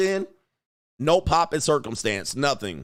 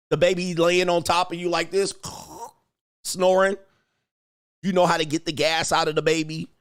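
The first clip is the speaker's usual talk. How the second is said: normal talking voice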